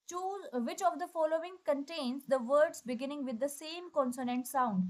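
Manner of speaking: slow read-aloud of the exam question. Shown as a demonstration. Teacher reading an exam question aloud to students. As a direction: read the question out clearly and slowly.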